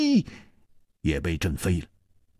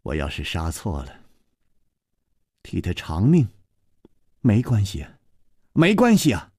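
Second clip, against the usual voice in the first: stern fierce voice; 6 semitones higher than usual. Acted. Gong Nanyan fiercely confessing and threatening Chu Liuxiang. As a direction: snap it out as a threat. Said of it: "宫南雁忽然厉声说".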